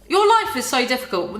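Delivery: sarcastic, mildly exaggerated pity; mock the narrator's self-pity; mock sympathy. Sarcastic jab at the book's narrator.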